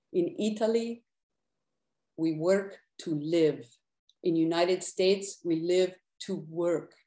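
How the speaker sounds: put-on a gentle Italian accent, shaking his head. Paolo tells the poet about work, light Italian accent. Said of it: "my attempt at an Italian accent".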